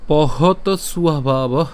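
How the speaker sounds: slow, measured Sanskrit verse recitation; shloka recitation. Shown as a demonstration. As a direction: draw out the long syllables, pausing after each phrase. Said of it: "আজকের শ্লোকটি হলো".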